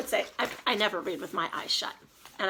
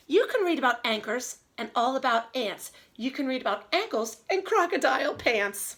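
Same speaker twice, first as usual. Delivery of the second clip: put-on reading to children. Reads story aloud.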